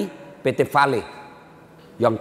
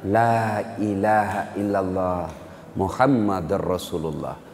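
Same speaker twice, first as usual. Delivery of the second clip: dying struggle; 6 semitones lower, slower than usual. Retold or imitated. Dying son saying the shahada with difficulty, faint. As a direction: force out the last words. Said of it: "dengan susah payah mengucapkan".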